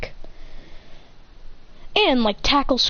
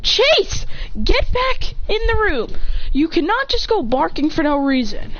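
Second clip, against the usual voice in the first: yelling at the dog; 5 semitones higher than usual. Real, not acted. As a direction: order the dog back into the room.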